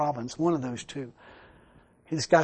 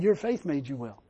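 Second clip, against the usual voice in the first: softer, lower retelling; quiet restatement; 4 semitones lower, 6 dB quieter than usual. Retold or imitated. Preacher quietly repeats Jesus' words to make his point. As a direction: say it softly.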